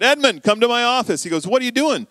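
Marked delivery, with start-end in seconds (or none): 0.0-1.2 frustrated boss. Retold or imitated. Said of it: "boss is a little more frustrated". 1.5-2.1 exasperated boss. Retold or imitated. Boss scolding Edmund.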